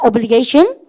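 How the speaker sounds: "obligation" with the stress on "ga", rising at the end; stressed syllable. Shown as a demonstration. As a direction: punch the GA in "obligation" as a prompt. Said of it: "여기 강세". ("obligation"의 "게이"에 강세를 주고 끝을 올려서)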